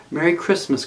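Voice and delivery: calling out warmly across the water; called out. A narrator's reading. Beaver calling back to the rabbit, loud and cheery. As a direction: call it back loud and bright. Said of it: "called the beaver".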